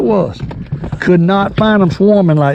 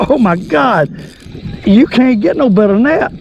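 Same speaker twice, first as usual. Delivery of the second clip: excited; 6 semitones higher than usual. Real, not acted. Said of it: "when I get excited".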